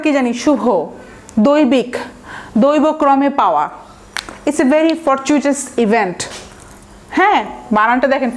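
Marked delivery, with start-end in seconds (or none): 4.5-6.2 slow example sentence. Shown as a demonstration. Teacher models example sentence slowly.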